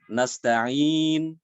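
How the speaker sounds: nasta'in closed on a silent final n; sukun ending. Shown as a demonstration. Teacher showing the sukun stop, clear demo. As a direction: cut nasta'in off cleanly at the n.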